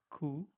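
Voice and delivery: "ku" as the German name of Q; German Q with no y sound; German letter Q. Shown as a demonstration. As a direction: say Q the German way, "koo". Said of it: "we pronounce it as like".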